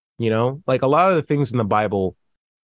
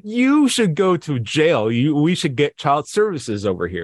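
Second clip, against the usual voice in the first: mock outrage. Outraged demand for a citizen's arrest.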